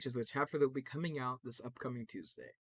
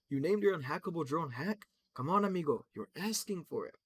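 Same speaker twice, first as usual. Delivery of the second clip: higher, louder teasing voice, amigo swagger; brash mocking character; 5 semitones higher, 5 dB louder than usual. Octane mocking Crypto's drone name, higher and teasing. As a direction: rib him like a cocky friend.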